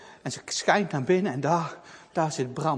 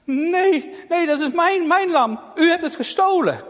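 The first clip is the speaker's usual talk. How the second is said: put-on indignant girl; 10 semitones higher, 7 dB louder than usual. Girl protests to thief.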